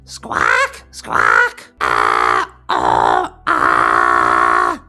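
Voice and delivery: low, loud raspy squawks; bird squawking. Shown as a demonstration. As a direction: squawk out harsh bird calls. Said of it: "Think of a bird squawking".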